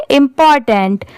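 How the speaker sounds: इम्पॉर्टेंट run together as one word; read at speed. Shown as a demonstration. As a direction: say इम्पॉर्टेंट quickly, no breaks between syllables. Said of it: "इसे speed में पढ़ेंगे". (इम्पॉर्टेंट एक साथ, speed में)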